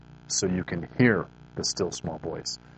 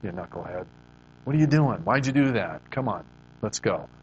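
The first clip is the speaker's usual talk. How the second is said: fond scolding. Retold or imitated. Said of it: "shakes his head and go".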